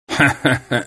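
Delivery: short acted snicker; taunting laugh. A narrator's reading. Drinker jeering at the coachman, taunting laugh. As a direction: laugh mockingly between jibes.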